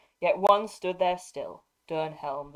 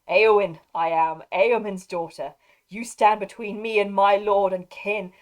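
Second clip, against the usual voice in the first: defiant battle cry; 2 semitones higher, 8 dB louder than usual. Acted. Eowyn reveals herself, defiant.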